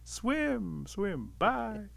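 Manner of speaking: singly called words trailing after a departing swimmer; receding call. Acted. Rabbit calling as Otter swims away.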